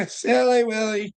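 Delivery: singsong tease. Real, not acted. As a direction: lift "Silly Willie" up in a teasing singsong.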